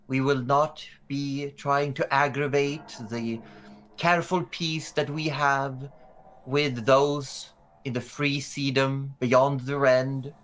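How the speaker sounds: stately official statement with measured pauses; regal orator. Acted. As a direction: address the crowd formally, reassuring them. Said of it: "And she says".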